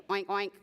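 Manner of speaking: low, quick grunted oinks; two short imitation pig grunts. A narrator's reading. Pig introducing itself to the bird, low oinking.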